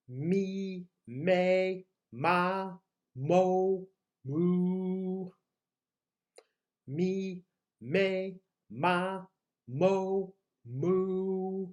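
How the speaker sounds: held, evenly pitched vowel syllables; vocal warm-up. Shown as a demonstration. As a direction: sustain each vowel like a vocal exercise. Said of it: "warm up our voices".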